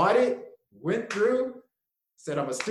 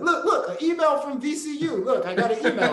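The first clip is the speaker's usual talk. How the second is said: eager excitement; 10 semitones higher, 7 dB louder than usual. Retold or imitated. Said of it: "I was like".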